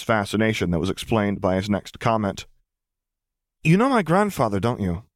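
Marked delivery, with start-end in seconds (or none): 3.6-5.0 put-on eager teen. Teenage boy asks eagerly.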